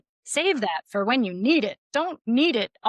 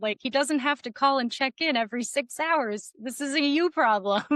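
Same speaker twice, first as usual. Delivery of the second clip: exasperated advice; 5 semitones higher than usual. Retold or imitated. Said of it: "I'm like".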